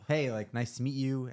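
a lightly voiced confident young woman; confident greeting. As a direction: play a self-assured girl meeting someone. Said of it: "she gave you a strong handshake".

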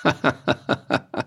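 short, gloating chuckle; mocking laugh. A narrator's reading. Bailiff laughs at the helpless farmer. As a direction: laugh at the farmer's bad luck. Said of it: "und lachend sagte der Vogt".

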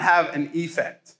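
"effect" said as "ee-fect". Shown as a demonstration. Preacher restating the wordplay point, "effect" with a long "ee" first. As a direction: open "effect" on a distinct "ee". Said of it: "went for the E secondarily".

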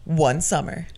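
whispered trailer tease; movie announcer voice. Shown as a demonstration. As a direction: breathe it like a trailer opening. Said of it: "It's my movie announcer voice".

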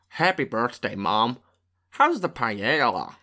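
poor attempt at a Pittsburgh accent; badly faked Pittsburgh accent.

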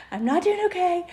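high, teary admission; mildly tearful mom admitting she's struggling; crying. Retold or imitated. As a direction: let the voice lift and wobble like crying. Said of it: "and I'm crying".

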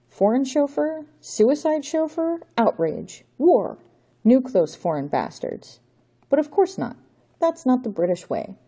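a hint of a theatrical count gloating; storybook villain declaiming doom; villainous Count. Count Otto lays out plot.

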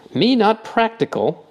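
indignant amazement. A narrator's reading. Stoit echoing Proctor's charge, indignantly amazed. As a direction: echo it, amazed and offended. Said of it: "with indignant amazement".

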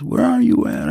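high called question; calling out. Retold or imitated. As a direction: call it out from a distance. Calling across the cells.

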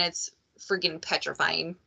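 drops to a hushed whisper; whispered fear. Real, not acted. Confessing pregnancy fear.

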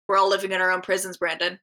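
lightly imitated cartoon coach, quick delivery; a hint of a deadpan coach, rattled off; Coach McGurk. Quoting a Home Movies speech, light coach impression. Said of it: "to be read in that voice".

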